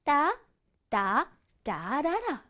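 "따, 따, 따라라" as spaced piano notes; slow sing-song "따, 따, 따라라"; like playing piano. Shown as a demonstration. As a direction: tap out the sentence tune slowly. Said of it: "피아노 악기 연주하고 있지요".

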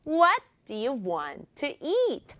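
three slow beats on "What", "want" and "eat"; stress on WHAT, WANT, EAT. Shown as a demonstration. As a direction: punch "What", "want", "eat", glide over the rest. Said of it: "한 번 더".

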